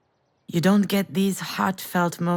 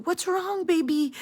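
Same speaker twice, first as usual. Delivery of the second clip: worried mother; 9 semitones higher than usual. Retold or imitated. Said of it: "I kept asking you".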